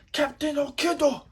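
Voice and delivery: put-on high, loud anime shout in Japanese accent; Japanese-accented English. Fan imitating Japanese voice actor, high Japanese-accented shout. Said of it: "the Japanese voice actor saying English words".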